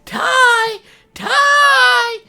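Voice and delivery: squeaky high little creature shouting the name; high, loud cartoon critter voice; creature calling Tai. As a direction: call out like an eager tiny monster. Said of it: "little talking creatures pull up like".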